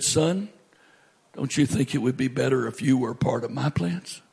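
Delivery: low, gentle retold voice of God; sweet voice. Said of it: "this sweet voice says to me".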